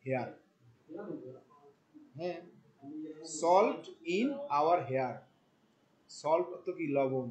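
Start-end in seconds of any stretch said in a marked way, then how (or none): 0.1-0.3 "Salt... in... our hair", a pause after each piece; broken into parts. Shown as a demonstration. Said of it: "ওইটাই তখন এখানে implement করা শুরু করলাম, যেটা ভাঙলে". 3.4-5.1 "salt in our hair" slowly, piece by piece; broken into parts. Shown as a demonstration. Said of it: "যেটা ভাঙলে".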